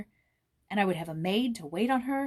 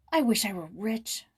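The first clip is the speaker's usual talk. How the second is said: impulsive exclamation; 4 dB louder than usual. Acted. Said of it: "exclaimed Joyce impulsively".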